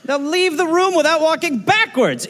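high mock-posh English voice; posh English servant. Mocking English manners in a high voice. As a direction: put on a prim English lilt.

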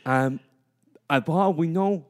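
rousing locker room coach; coach pep talk. Acted. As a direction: fire up the team like a coach. Plays coach giving pep talk.

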